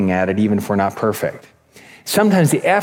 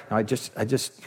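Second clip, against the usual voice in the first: much softer, faltering customer; meek stammer; 3 semitones lower, 10 dB quieter than usual. Retold or imitated. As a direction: imitate being cowed by a shouting clerk. Meek customer stammers at yelling clerk.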